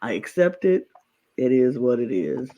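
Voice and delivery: resigned martyr. Pretend. Acting out the player's ideal line, mild resigned sigh. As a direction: sigh it like you've given up. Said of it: "go around and be like".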